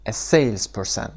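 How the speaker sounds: slow "salesperson", weight on the first syllable; stress on SALES. Shown as a demonstration. Teacher shows students the stressed SALES in "salesperson". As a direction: lean on SALES and let the rest of "salesperson" fall. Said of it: "استرسش هم قسمت اول".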